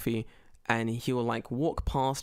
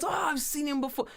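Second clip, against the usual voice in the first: put-on old woman; 11 semitones higher than usual. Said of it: "And she goes".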